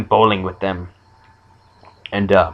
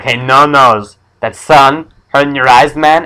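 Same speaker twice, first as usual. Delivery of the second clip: loud, raised jeering call; mock taunting; 5 semitones higher, 7 dB louder than usual. Bullies heckling No Nose about the sun, mock taunting. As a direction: call out mockingly, pitch climbing to the end.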